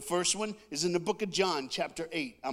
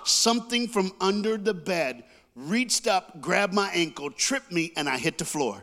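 panicked retelling; 5 dB louder than usual. Retold or imitated. Panicked climax of monster story.

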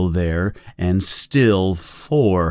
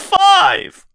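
anguished shout; 3 dB louder than usual. Acted. Winston screaming under torture.

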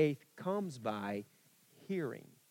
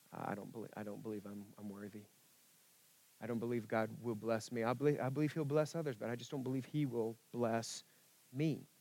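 much softer, lower, halting self-doubt; hushed confession; 4 semitones lower, 6 dB quieter, faster than usual. Retold or imitated. Preacher voicing a doubter's hidden belief, hushed and low. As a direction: admit it quietly, ashamed. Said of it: "you would say things like".

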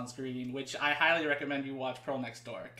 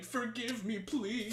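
melodramatic crying plea; 7 semitones higher, 4 dB quieter, slower than usual. Retold or imitated. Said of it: "a Filipino crying and just saying".

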